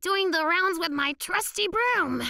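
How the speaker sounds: high, sing-song cover story; innocent bluff. Acted. Nettie to the security machine, claiming to do rounds, innocent bluff.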